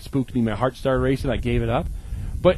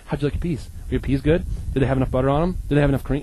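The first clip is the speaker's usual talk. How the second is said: fussy host imitation; much faster than usual. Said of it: "they'll ask you five times".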